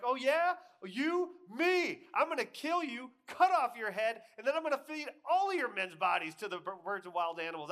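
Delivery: very high, loud, hammed-up retort; cocky comeback. David outdoing Goliath's threat, cocky shouted trash talk. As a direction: fire back with mock outrage, shouting.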